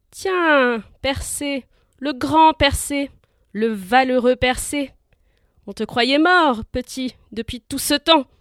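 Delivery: slow, loud mocking sneer; sneering cackle. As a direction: taunt him with a gloating sneer. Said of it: "ricana-t-il".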